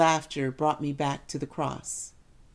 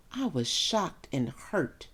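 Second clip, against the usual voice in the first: shocked and hurt; 2 semitones lower, 6 dB quieter, slower than usual. Acted. Mother hurt by son's snub.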